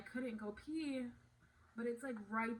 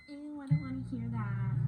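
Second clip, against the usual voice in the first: higher, louder mimicked whine of objection; mock squeamish complaint; 4 semitones higher, 9 dB louder than usual. Vlogger mimicking viewers who object to details, mock squeamish. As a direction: imitate a disgusted viewer.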